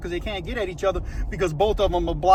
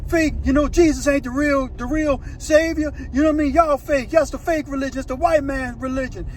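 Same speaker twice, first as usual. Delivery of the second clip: high-pitched acted jeering; retold mocking yell; 6 semitones higher than usual. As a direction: imitate taunts called down the cellblock. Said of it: "He yells down there to Ghost Rider and starts mocking".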